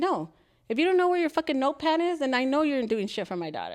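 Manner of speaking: sharp, fast angry snap; retelling telling off the vice principal, heated; retold angry retort. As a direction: let her have it, heated. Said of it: "and I was like".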